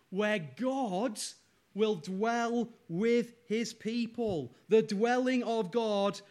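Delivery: rally the congregation toward the promise; impassioned preaching. Real, not acted. Preaches at full force.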